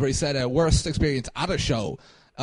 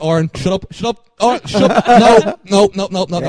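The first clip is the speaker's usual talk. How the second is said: louder, pleading to shut him up; urgent hush; 3 semitones higher, 8 dB louder than usual. Retold or imitated. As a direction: beg your friend to stop, louder each time.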